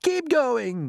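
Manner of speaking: high, loud encouragement; cried out. Acted. Crew urging James on, high cheering call. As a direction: cheer him on. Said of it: "they cried".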